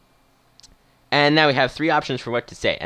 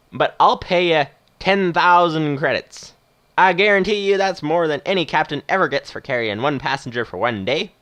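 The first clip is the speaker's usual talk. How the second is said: put-on higher Western movie old-timer; Western accent; 4 semitones higher, 3 dB louder than usual. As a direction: make the offer as a retired Western captain. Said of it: "doing a sort of Western accent".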